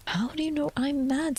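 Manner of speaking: a hint of puzzled Alice in a whisper. Alice challenges the cat's claim, lightly voiced whisper.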